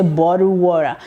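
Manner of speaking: "bottle water" with a flapped d-like t and an r at the end, bɔdu wɔɹə; American accent. Shown as a demonstration. Video lesson for a child, modelling the American accent. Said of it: "That's an American accent, say".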